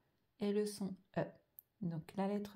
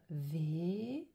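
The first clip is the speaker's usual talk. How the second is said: V held long, then lo held long; drawn-out syllables; much slower than usual. Shown as a demonstration. Teacher saying which syllable comes first, drawn out. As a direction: slowly stretch each syllable, V and lo. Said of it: "je dois d'abord écrire".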